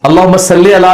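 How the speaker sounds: "صلی" said as sal-lay; majhool pronunciation. Shown as a demonstration. Teacher showing the permissible majhool reading, "le" ending. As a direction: let "صلی" end on an open "le". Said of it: "آپ مجہول بھی پڑھ سکتے ہیں".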